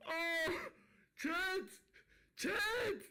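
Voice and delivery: high yelps calling to chat; excited shouts. Real, not acted. Streamer calling out to his chat mid-win, thrilled yelps. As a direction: yelp out to the viewers in shock.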